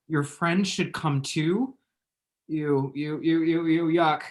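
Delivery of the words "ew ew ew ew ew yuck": growing disgusted ews. Acted. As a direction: recoil in disgust. Disgust at message.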